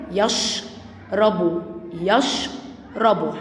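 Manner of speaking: يشرب split as "yash", a pause, then "rabu"; sukun shown. Shown as a demonstration. Teacher shows sh resting on the letter before, split "yash - rabu". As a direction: close the first syllable of يشرب on sh, stop, then finish. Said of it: "ما بيتنطقش، لازم حرف قبليه".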